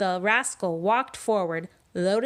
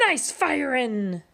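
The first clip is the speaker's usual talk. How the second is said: slow, drawn-out pirate praise; pirate approval; 5 semitones higher than usual. Acted. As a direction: savour the compliment like a captain. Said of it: "said Pete".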